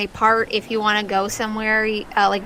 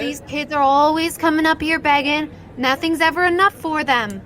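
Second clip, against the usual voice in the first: scornful spirit; 6 semitones higher than usual. Acted. Spirit scorning the begging kids.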